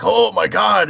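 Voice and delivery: high-pitched imitation of awestruck classmates; mock amazement. Imitating classmates meeting the city boy, mock amazement. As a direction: gush in exaggerated awe.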